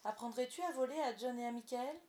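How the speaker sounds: high, loud eager request; thrilled, urgent question; exclaiming. A narrator's reading. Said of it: "s'écria-t-elle".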